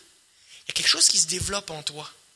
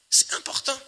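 whispered "C'est important", no voice; 8 semitones higher than usual. Shown as a demonstration. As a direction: breathe "important" as a hushed secret.

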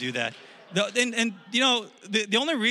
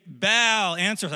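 louder, higher call to a god; acted crowd cry; 3 semitones higher, 5 dB louder, slower than usual. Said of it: "they're saying".

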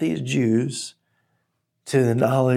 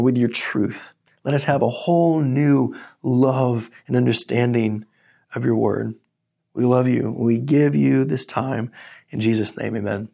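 prayer. Real, not acted. Pastor praying before the sermon, earnest and hushed.

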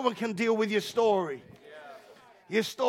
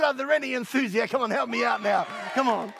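quicker, pushier repeat; fast, louder second ask; asked again, louder; 3 semitones higher than usual. Shown as a demonstration. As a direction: press the crowd for an answer. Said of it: "I said".

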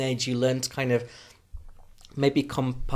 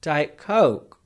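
put-on diluted London accent; 3 semitones higher, 5 dB louder than usual. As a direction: give in and say "Coke" in a London accent. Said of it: "I'm evolving".

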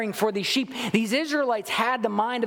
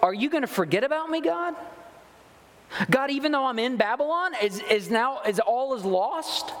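anxious plea; 5 semitones higher than usual. Retold or imitated. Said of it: "for them to go".

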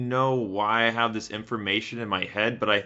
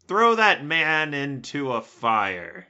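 loud, slow, higher proclamation; mock condemning shout; 4 semitones higher, 6 dB louder, much slower than usual. Last person in the telephone game ordering a burning, mock shout. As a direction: draw out a hammed-up death sentence.

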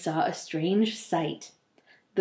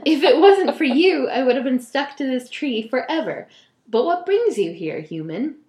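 ghoul voice; 4 semitones higher, 4 dB louder than usual. Acted. Ghoul speaking in story.

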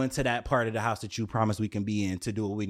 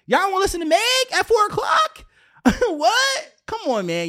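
laughing disbelief; 6 dB louder than usual. Real, not acted. Incredulous at police over music.

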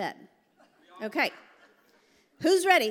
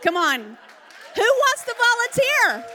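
calling out; 10 semitones higher, 8 dB louder than usual. Real, not acted. Calling crowd for volunteers.

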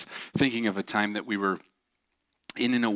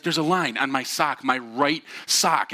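higher-pitched mock frantic explanation; retold urgency, stressed and pitched up; frantic, near tears; 5 semitones higher, 4 dB louder, slower than usual. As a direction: imitate a mildly desperate plea. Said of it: "almost like he's on the verge of tears".

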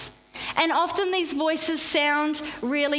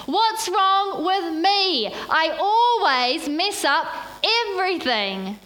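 slow, higher and louder anguished self-talk; despairing inner voice; 5 semitones higher, 4 dB louder than usual. Retold or imitated. Pastor voicing the chatterbox's lie, slow and anguished. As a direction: drag out each word like a hopeless sigh. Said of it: "It can be summed up in this sentence".

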